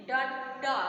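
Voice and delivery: डंडा said with the nose held closed, the ण hum lost; nose pinched shut. Shown as a demonstration. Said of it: "अगर हम अपनी नाक बंद करके बोलेंगे डंडा".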